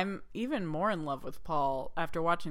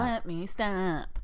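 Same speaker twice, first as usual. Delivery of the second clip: mock Jack Nicholson; 3 semitones higher, much slower than usual. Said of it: "I'm Jack Nicholson".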